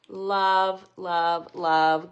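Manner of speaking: loud gushing love, love, love; excited love. Real, not acted. Crafter gushing over her finished project, loud and excited. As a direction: burst out loving it.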